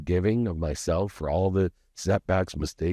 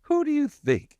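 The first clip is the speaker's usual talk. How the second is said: much higher, louder mock yell; retold drunken yell; 3 dB louder than usual. Drunk husband yelling at his wife, high mock shout. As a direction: shriek it like a drunk showing off. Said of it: "I remember".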